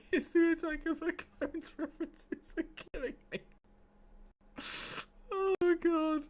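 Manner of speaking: high voice, laughing through it; giggling explanation. Real, not acted. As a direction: talk while still cracking up. Apologising while still laughing.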